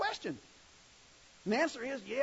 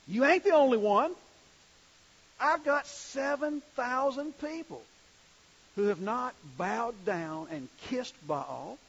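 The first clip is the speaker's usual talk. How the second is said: louder and slow, a plain-spoken firm God; God's blunt reply; 5 semitones higher, 5 dB louder, slower than usual. Retold or imitated. God sets self-pitying Elijah straight, firm and slow. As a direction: tell him straight, no coddling. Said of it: "I'm gonna paraphrase here".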